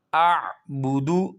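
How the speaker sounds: اعبدو with a distinct throaty ع after hamza; clear ain. Shown as a demonstration. Teacher showing hamza and ain apart. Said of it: "حمزہ اور عین دونوں اکٹھے".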